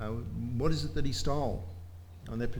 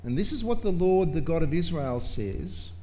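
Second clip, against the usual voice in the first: prophetic proclamation; 3 semitones higher, 3 dB louder than usual. Acted. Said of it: "then Nathan said to David".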